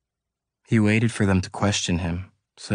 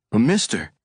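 protesting in a raised whine; high whine; 4 semitones higher, 4 dB louder than usual. A narrator's reading. Suspect protesting to the policemen, high whine. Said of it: "he protested in a high whine".

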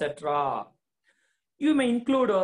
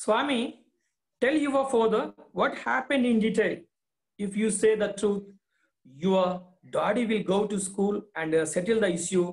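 coaxing mother; 2 semitones higher, faster than usual. Acted. Teacher voicing the mother urging Swami to speak, coaxing. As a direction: coax the boy to tell the truth. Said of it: "said the mother".

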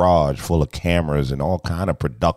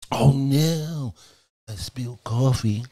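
surprised dismay; 9 semitones higher, slower than usual. Real, not acted. Just spilled coffee on laptop.

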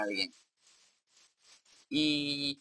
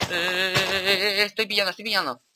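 high, loud stuttered alarm; urgent alarm; 6 semitones higher, 5 dB louder than usual. Real, not acted. Player taking hits from an enemy, loud and alarmed. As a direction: stammer the first sound, then blurt it out. Getting hit in the game.

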